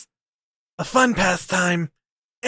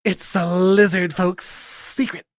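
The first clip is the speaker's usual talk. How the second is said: slow lizard voice; slower than usual. Acted.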